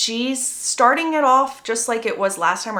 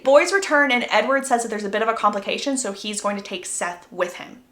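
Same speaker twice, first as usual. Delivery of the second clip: ordinary delivery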